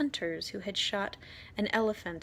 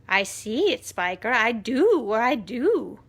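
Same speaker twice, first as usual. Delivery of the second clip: excited; 2 semitones higher, 8 dB louder than usual. Acted. Excited sister answering.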